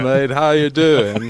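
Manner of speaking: put-on slow, high London accent, done as Gunner; hammed-up London greeting. Imitating Gunner greeting a mate, in a London accent. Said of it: "tried to imitate the London accent".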